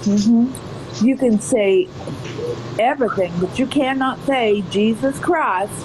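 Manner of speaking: southern lady. Acted. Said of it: "my southern accent".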